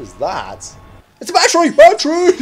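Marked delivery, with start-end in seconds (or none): 1.2-1.7 high excited cry of discovery. Real, not acted. Gamer spotting a battery, excited high cry. 1.7-2.3 squealed even louder and higher; excited. Real, not acted. Gamer echoing the find to viewers, squealing.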